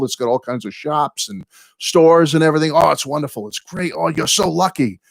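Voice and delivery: replaying his own thrilled gushing to a friend; retold excitement. Telling a friend about his Liverpool trip, excited gushing. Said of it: "I was all excited for him".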